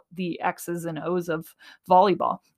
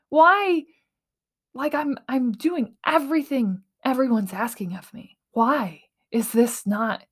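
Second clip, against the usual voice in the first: re-enacted anguished plea, pitched higher; retold tearful pleading; 5 semitones higher than usual. Podcaster reliving her cry over not fitting in, mock-tearful pleading. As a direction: plead upward on each "why", as if remembering tears. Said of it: "crying and just being like".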